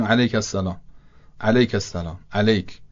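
علیک with a kasra lam, Persian style; Persian-accented Arabic. Shown as a demonstration. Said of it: "لام رو با کسره گفتم".

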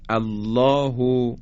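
"الله" slowly, with an airy final h; open round h. Shown as a demonstration. Teacher models الله with open ه. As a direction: keep the ه of "الله" free of constriction. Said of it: "پس های دو چشم مثل".

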